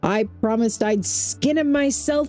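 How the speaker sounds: lightly dramatized journal narration; diary read-aloud. Acted. Gamer reading an expedition leader's diary to viewers, lightly dramatic narration. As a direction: read it out with storybook emphasis, in your own accent. Reads a diary found in game.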